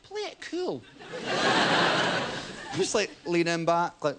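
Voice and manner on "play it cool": soft, high, airy inner voice; hushed cool brain voice. Retold or imitated. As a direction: coolly tell yourself to play it cool. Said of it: "my brain went".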